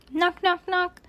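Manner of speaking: high, even sing-out knocks; imitated knocking. A narrator's reading.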